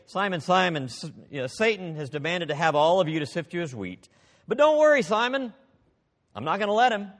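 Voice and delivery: preacher voicing a wrong reassuring Jesus, mock comfort; mock comforting promise. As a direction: ham up the version Jesus never said. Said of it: "Jesus did not say".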